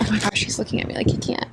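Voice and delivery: fast, soft, under her breath; soft excited aside; hushed giddy rush. Retold or imitated. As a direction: gush it quietly to yourself.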